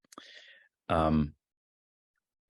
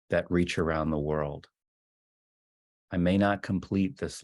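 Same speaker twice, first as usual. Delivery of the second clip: measured recital with pauses between lines; poem reading. Acted. Teacher reading Rilke's poem to a gathered group, measured recital. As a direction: read each line of the poem deliberately, letting it settle.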